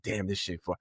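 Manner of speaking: drawn out, slowed right down; slow savoring. Retold or imitated. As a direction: savor each word of praise. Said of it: "But you're like".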